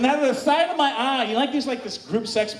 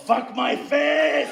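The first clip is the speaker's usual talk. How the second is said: mock demanding shout; much slower than usual. Acting shouted demand to partner.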